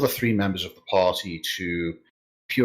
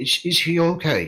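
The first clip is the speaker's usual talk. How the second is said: put-on very high-pitched elderly woman's voice; 9 semitones higher than usual. Voicing a woman at the door asking what happened: old woman's voice. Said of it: "It sounds feminine, uh, and old".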